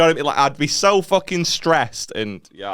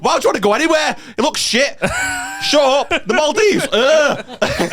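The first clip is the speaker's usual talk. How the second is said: much higher, whiny trashing of the Maldives; panicked mock whine; 13 semitones higher than usual. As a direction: sulk it down in a panic. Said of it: "and I just panicked".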